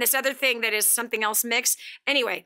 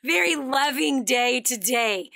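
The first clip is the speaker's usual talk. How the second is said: joyful; slower than usual. Retold or imitated.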